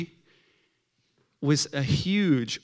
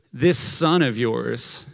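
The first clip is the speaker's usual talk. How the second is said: slow, pointed acted contempt; disowning, deliberate jab; mad older brother; 2 semitones lower, much slower than usual. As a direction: drag it out as an accusation. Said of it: "This is how mad the older brother is".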